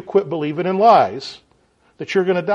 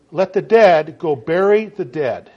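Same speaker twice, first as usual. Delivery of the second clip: blunt rebuke; 4 dB louder, slower than usual. Retold or imitated. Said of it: "It was not nice".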